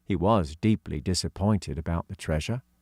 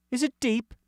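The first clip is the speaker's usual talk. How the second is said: put-on high girl's voice; young girl voicing; girl character voice. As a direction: pitch up for young Katy. Katy voice.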